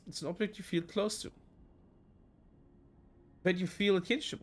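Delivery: measured storytelling read of the game text; narrating a visual novel to viewers; story narration. Acted. Reads game narration aloud.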